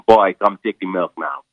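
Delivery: put-on slow, drawn-out Trinidadian accent; Trinidadian cow. Comic explaining the show's title to a host, Trinidadian accent. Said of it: "the cow was a Trinidadian accent".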